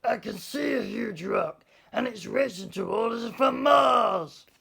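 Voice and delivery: high, loud startled yell; a boy yelling in alarm at a rock from Mars; shocked shout. A narrator's reading. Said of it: "Then he shouted in shock".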